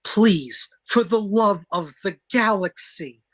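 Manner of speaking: drawn-out mock appeal, pitch climbing; exasperated plea. Reading a note to Chapel, exasperated plea. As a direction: plead with theatrical exasperation.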